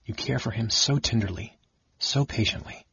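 soft, wistful and tender. Acted. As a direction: let the longing show, quietly. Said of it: "His voice grew wistful".

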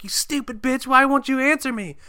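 very high, loud mock screech; hammed-up imitated tantrum; pissed off. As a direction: shriek it as if shaking her. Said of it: "she just gets pissed off".

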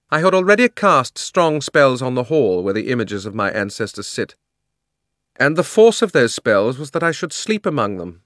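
loud, high, imperious queen voice; haughty queen's loud grievance; proud queen. A narrator's reading. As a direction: rant like a wronged tyrant queen.

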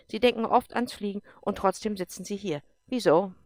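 loud, commanding officer voice; a tough general pressing a colonel hard; stern general. Acted. General challenges Erik, loud and commanding. General questions Erik's posting.

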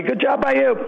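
playful falsetto-ish thanks; mock high voice. Joking sign-off between hosts.

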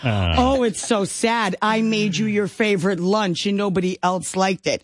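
lightly voiced grandpa, slow and amused; a hint of a chuckling old man; grandfather consoling. Grandfather teasing his crying granddaughter, slow amused voice. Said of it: "he says".

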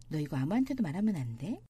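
ordinary talk, nothing marked

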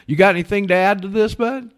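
loud, high hail across room; calling out. Real, not acted. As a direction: call him over from a distance. Calling out to absent friend.

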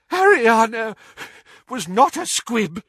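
high, halting wheezy protest; wheezing. A narrator's reading. Doge defending Ariana, wheezing. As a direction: wheeze it out with effort, breaking after the name. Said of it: "wheezed Doge".

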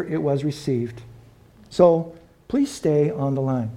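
lightly done automated phone menu. Pretend. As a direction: recite it like a recorded phone message. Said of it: "imagine praying and hearing this".

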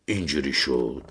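high-pitched yell, easing after the first words; roared confession. A narrator's reading. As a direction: burst out loudly, then keep explaining defensively. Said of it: "نعره کشید".

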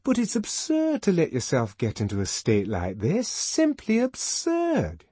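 protest, stretching the final repeat; energetic protest. A narrator's reading. Fanny scolding Lenina for her state, protesting energetically. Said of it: "Fanny was energetically protesting".

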